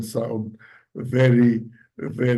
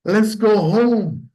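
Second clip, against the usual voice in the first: attitude demo; 5 semitones higher, slower than usual. Shown as a demonstration. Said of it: "What is the attitude".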